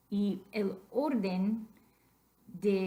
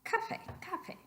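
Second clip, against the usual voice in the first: softer "Café", stressed on CA each time; misplaced stress; 11 semitones higher, 7 dB quieter than usual. Shown as a demonstration. Teacher repeating the wrong form, softer café stressed on CA. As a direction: stress CA in both "café", more quietly. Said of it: "which would make it café".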